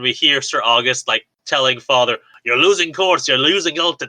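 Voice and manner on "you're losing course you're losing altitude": put-on Scottish accent. Recapping a scene, the speaker quotes Sir August telling Father: Sir August in Scottish accent. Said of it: "No, that's Scottish".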